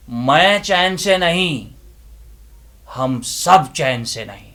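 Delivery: loud, impassioned recitation with long pauses; dramatic declamation. Acted. Inner voice confronting the listeners with a loud, impassioned declamation. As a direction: preach it like a stage monologue.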